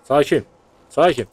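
loud repeated Sakin, falling each time and fading out; loud urging calm. Real, not acted. Gamer urging his panicking character to calm down, loudly.

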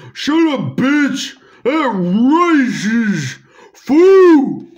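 a hint of an angry cool-guy voice; Tyrone's voice. Shown as a demonstration. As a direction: redo it as the bunny, snapping back. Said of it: "Tyrone's voice".

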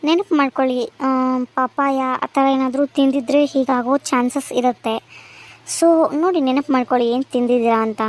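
calm doctor greeting the patient; doctor asking. Acted. (ವೈದ್ಯರ ಧ್ವನಿ)

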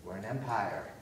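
mock whisper, like a confession; conspiratorial hush, half joking; hushed secret. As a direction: lean in and let them in on a secret. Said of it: "you're like".

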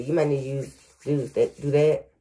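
real stumbling restarts; halting, repeated words; stuttering. Real, not acted. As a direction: trip over the phrase and repeat it. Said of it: "Y'all know I start stuttering".

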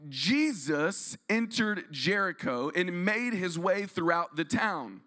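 slow, measured Bible reading; unhurried scripture voice. Acted. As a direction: read it deliberately.

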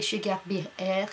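English brand name in a careless French accent; heavy French accent. Real, not acted. Vlogger reading out her vitamin brand, lazy French accent. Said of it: "Désolée pour mon accent de merde".

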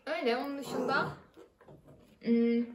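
chewing while talking; speaking with food in mouth; mouth full of food. Real, not acted. Seen 0: She bites a fry, then speaks with cheeks full, chewing.

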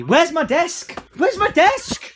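high, loud whining; childish whining. Pretend. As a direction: whine it like a spoilt child. Tantrum demanding a desk.

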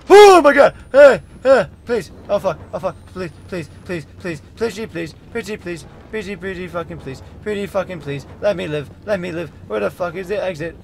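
high terrified screams and begging; screaming in panic. Real, not acted. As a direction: scream and beg for your life. Chased, begging to survive.

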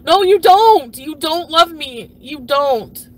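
loud bitter no, you don't; angry retort. Retold or imitated. Answering his empty love vow, a bitter loud retort. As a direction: throw it back at him hard.

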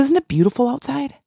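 high, bright, enthusing question; sunny enthusing. Retold or imitated. Shopper gushing about the weather to the cashier in a high voice. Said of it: "I said".

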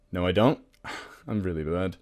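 usual speaking voice

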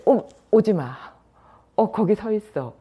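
lightly acted tipsy man, loud; drunk talking to a pole. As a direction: play a drunk waving off a lamppost. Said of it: "막 이러면서".

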